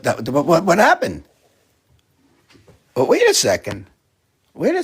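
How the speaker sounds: sudden high startled cry; startled what. Real, not acted. Owner startled by what the cat did, surprised high cry. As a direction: jump at something unexpected.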